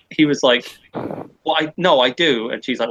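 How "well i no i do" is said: mock flustered, faltering start. Mate caught out by her question, flustered. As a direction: stumble into a hesitant denial. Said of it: "didn't really know what to say".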